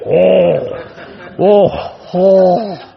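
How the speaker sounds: hypnotized subjects groaning through laughter; laughing subjects reacting to the stink.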